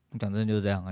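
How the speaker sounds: ordinary talk, nothing marked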